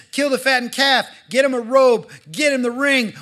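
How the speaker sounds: loud, high, overjoyed orders; a thrilled father throwing a party for his returned son; excited father. Acted. Father shouting orders to servants, overjoyed. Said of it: "the dad's excited".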